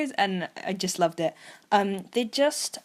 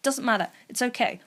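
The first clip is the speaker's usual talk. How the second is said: forced beaming cheer, starting high and settling; Chica; 5 semitones higher than usual. Retold or imitated. Chica telling everyone it's okay, beaming over her upset. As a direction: imitate bright reassurance through a put-on smile. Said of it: "she has this beaming smile".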